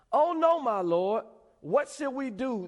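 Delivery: high-pitched, loud cry of dismay; alarmed servant. Acted. Servant sees the army surrounding.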